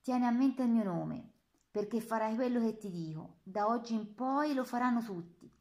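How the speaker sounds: an SS lieutenant crushing a prisoner; menacing officer. Acted. (minaccia autoritaria a voce alta)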